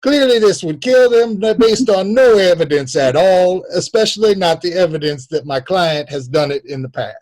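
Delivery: loud, high courtroom oratory; hammed-up lawyer's summation; mock Southern lawyer. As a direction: argue it like a blustering defence attorney. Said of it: "that's how his lawyer sounds".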